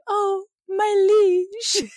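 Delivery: high, loud, slow, hammed-up tearful gush; mock swooning Katrina. Mocking Katrina gushing at Uther, high, slow and hammed-up. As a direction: overplay a lady swept off her feet. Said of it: "her just kinda going".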